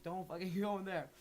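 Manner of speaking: frantic don't-go-in plea; alarmed warning. Retold or imitated. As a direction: urgently warn yourself away from the house. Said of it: "I was like".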